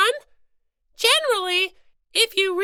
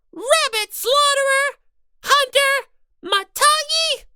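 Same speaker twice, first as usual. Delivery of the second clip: building indignant name-calling; 4 semitones higher than usual. Acted. Little sister hurling names at the crossbow brother, building. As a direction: pile the names on, each one hotter.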